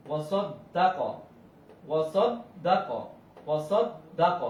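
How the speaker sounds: ওয়া সদ দা ক with doubled d and short vowels; quick harakat, held tashdid. Shown as a demonstration. Teacher showing tashdid to students, short-vowelled ওয়া সদ দা ক. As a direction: lean on the doubled d, keep ক short. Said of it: "তাড়াতাড়ি করেছি".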